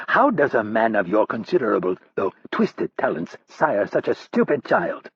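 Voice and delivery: slow, drawn-out insult; slow sneer. Acted. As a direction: savour each word. Roddy insults slowly.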